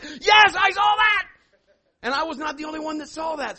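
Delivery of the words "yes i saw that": high, full-volume holler; acted astonished shout. Pastor answering stunned onlookers, high acted shout. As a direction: yell it back in sheer amazement.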